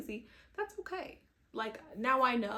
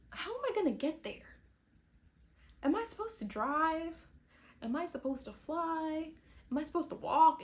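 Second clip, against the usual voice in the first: higher, louder run of anxious questions; retold panic; 7 semitones higher, 4 dB louder than usual. Retelling her travel worries, in mock panic. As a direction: replay the panic, voice climbing. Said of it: "So then I start to panic".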